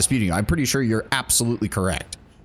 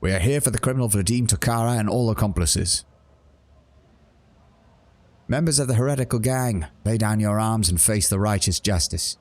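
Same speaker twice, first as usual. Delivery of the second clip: stern enforcer, opening high and commanding; enforcer commands; 4 semitones higher than usual. Acted. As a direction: order the criminals to surrender. Enforcers storm the bar.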